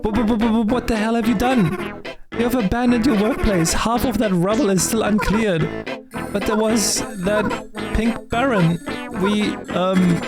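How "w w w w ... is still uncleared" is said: stammering scold. Acted. Boss scolding workers.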